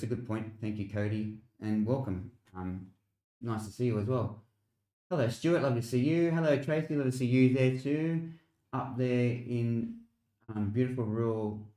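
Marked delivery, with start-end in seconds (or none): 5.1-11.7 cheery greeting. Real, not acted. Greeting viewers on stream.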